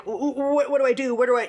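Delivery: mock-flustered stammer, groping for words; shocked stammering. Stepsister frozen at the scene, imitated in stammering shock. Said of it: "the shock that Nikki was in, sort of like".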